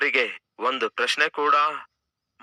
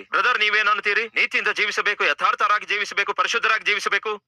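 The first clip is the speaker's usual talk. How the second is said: high-pitched imitation of a pulpit preacher; mock emphatic preaching; 6 semitones higher, faster than usual. Church member imitates the preacher demanding holy living, mock emphatic. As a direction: lightly mimic a preacher's forceful demands. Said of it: "ಬಹಳ ಗಟ್ಟಿಯಾಗಿ ಹೇಳ್ತೀರಿ".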